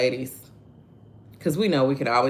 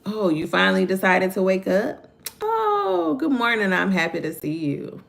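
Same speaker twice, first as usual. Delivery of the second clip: sarcastic mom; 4 semitones higher than usual. Retold or imitated. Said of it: "we good for that".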